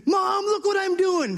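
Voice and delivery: put-on high, slow, shouted kid call to Mom; proud little boy calling. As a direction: call out like a proud five-year-old. Five-year-old son calling mom.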